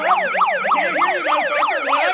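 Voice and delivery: mock them in a silly high voice; mocking taunt. Mocking voice, much higher.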